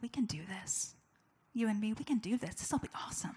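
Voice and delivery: hushed, choked-up retold encouragement; tearful husband. Husband reassuring pregnant wife, tearful. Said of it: "this is him bawling".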